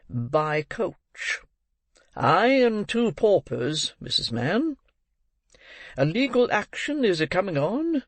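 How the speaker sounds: a hint of a boastful parish beadle; pompous beadle. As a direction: announce it with puffed-up pride. Bumble announces his trip.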